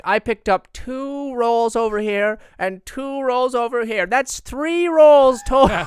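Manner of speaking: high, loud, slow dopey voice; dumb cop voice. Pretend. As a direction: sound proudly dim and wrong. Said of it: "What if he can't do basic math".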